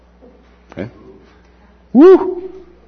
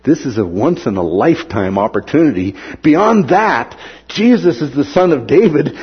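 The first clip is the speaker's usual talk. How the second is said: eager hope; 3 semitones higher than usual. Retold or imitated. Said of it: "saw it as".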